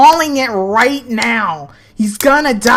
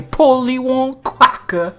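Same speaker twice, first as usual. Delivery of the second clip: high, slow squawky parrot; 6 semitones higher, 4 dB louder, slower than usual. Pretend. Player pretending to ask the parrot, high slow parrot voice. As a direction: squawk it like a pet bird.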